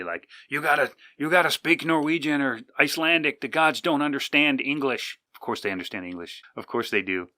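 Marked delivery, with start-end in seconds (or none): 0.5-5.2 mocking trolls in a lightly higher voice. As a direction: parody the trolls with a sneering lilt. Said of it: "I had some trolls telling me".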